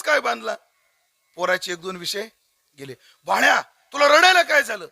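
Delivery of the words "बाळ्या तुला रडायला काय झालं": high, loud motherly voice; consoling mother. Acted. Mother consoling her crying son, high and loud. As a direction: comfort the boy, sure he failed.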